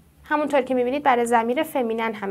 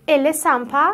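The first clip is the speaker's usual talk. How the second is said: "Elle est sympa" rising into a question; questioning tune; 4 dB louder than usual. Shown as a demonstration. Teacher quoting the friend's question, "Elle est sympa" with questioning rise. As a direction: ask "Elle est sympa" by intonation alone. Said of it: "لحنتو سوالی بکن".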